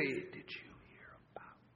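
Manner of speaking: hushed, secretive whisper. Showing how people lower their voice to gossip: demonstrating a gossip whisper. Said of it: "your voice comes down like this".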